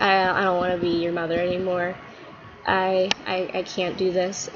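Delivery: quiet, low, halting mock despair; hammed-up weary mother; disowning mother. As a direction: give up on him in a subdued voice. Mom disowns her son.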